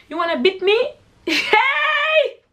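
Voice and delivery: squeaky mock challenge; playful high taunt. Storyteller clowning at a would-be fighter, squeaky playful taunt. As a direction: goof around in a very high voice.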